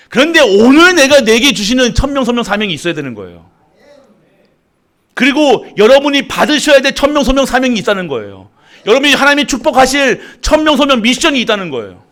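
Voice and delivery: loud, high preaching cadence; fervent preaching. Acted. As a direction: proclaim it to the congregation. Preaching loud call, repeated formula. (힘차게 외치는 설교)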